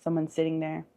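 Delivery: measured visualization with lingering pauses; guided meditation. Acted. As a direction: gently lead them through an imagined scene. Leads a guided forest visualization.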